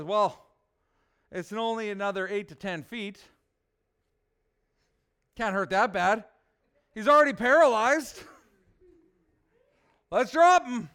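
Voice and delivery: casual Southern shrug, rising loud and laughing at the end; Southern good-ol'-boy, breaking into a laugh; Bubba's southern accent. Acted. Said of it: "Picture my southern accent right now".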